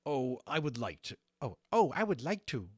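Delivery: high, loud eager little dragon; hopeful Levitas. Acted. Little dragon Levitas begs to go along, high and eager. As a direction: plead gently for permission. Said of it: "looking at Lawrence hopefully".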